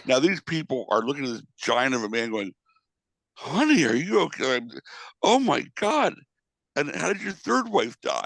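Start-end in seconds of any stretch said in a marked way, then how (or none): 3.3-8.2 imitating concerned strangers. Concerned passengers question the giant.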